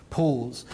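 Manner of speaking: "pause" set apart by a short gap and given weight, falling; stress on pause. Shown as a demonstration. Pointing out the government only paused electrification, stressing "pause". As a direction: lean on "pause" after a beat. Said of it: "and I stress that word".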